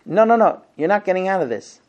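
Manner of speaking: insistent, scolding, fast; annoyed wife. Retold or imitated. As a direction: cut him off sharply. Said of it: "And she says".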